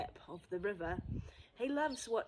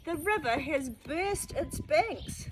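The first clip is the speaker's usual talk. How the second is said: raised, higher alarmed call; neighbours shouting; 6 semitones higher than usual. Acted. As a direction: warn the street, voice up. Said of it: "the neighbours shout".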